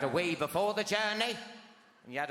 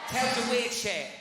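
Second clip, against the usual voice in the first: louder, higher blurt; 5 semitones higher, 7 dB louder than usual. Acted. Urging the crowd to admit it, loud blurt. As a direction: fire it out.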